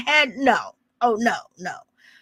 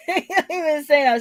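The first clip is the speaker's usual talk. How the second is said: laughing; much faster than usual. Real, not acted.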